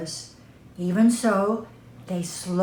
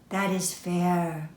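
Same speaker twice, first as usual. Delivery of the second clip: quiet reluctant agreement; 2 semitones lower, 5 dB quieter than usual. Acted. Children grudgingly agree.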